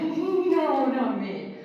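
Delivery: reluctant adults. Retold or imitated. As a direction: imitate adults backing out. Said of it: "adults are always like".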